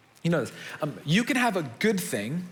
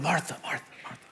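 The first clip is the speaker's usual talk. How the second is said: calming Jesus. Acted. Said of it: "He's trying to calm her down".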